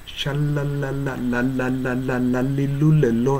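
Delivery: "シャララララララララリルレロ" as a run of clear l syllables; la-li-lu-le-lo drill. Shown as a demonstration. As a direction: drill "リルレロ" with English l. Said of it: "ラリルレロという発音をする練習". (L の発音練習「リルレロ」)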